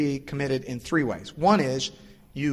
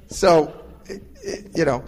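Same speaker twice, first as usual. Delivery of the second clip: laughing; 3 semitones higher, 5 dB louder, slower than usual. Real, not acted.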